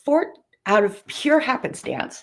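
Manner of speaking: words stretched by a yawn; through a yawn. Real, not acted. Host on her livestream, yawning mid-sentence to viewers. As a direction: yawn while saying it. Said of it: "I am yawning".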